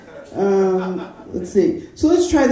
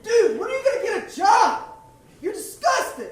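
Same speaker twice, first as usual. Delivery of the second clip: nagging roommate; 10 semitones higher, 4 dB quieter than usual. Acted. One-man play, roommate voice.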